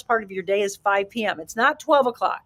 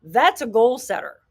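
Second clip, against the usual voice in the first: louder, confident declaration; energetic goal setter; 2 semitones higher, 3 dB louder than usual. Shown as a demonstration. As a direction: state it with drive. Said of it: "You hear the difference in my inflection and my energy".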